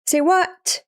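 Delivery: high-pitched acted disbelief; startled character. Denji answers Asa's plea to eat her, startled. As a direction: blurt it as a baffled manga hero. Reads Denji's shocked reply in manga.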